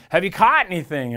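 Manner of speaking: retold shout, held back; mild mock yell. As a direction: imitate calling out to a boat, half-strength. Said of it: "he yells out to them".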